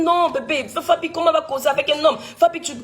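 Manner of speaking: high-pitched indignant retort, re-enacted; upset protest. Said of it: "tu vas commencer à crier".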